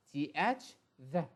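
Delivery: "the" with the tongue between the teeth; TH sound. Shown as a demonstration. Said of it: "Not the".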